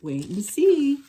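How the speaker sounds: high, loud and slow; defiant cry. Acted. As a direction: fling it back at the laughers, slowly. Bunny's defiant reply.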